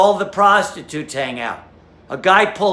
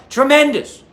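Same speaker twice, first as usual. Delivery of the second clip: much higher, louder astonished exclamation; amazed gasp; 7 semitones higher, 3 dB louder than usual. Acted. Wife stunned at the sight, high amazed cry. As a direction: gasp it out in wide-eyed shock. Wife still gawking at package.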